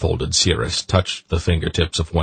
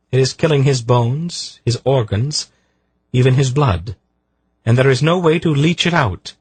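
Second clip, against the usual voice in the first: higher, measured explanation; grave Polgara; 8 semitones higher than usual. A narrator's reading. Polgara voiced.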